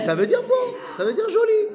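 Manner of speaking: high, loud answer through laughter; laughing. Real, not acted. Teacher laughing as she insists it just means pretty.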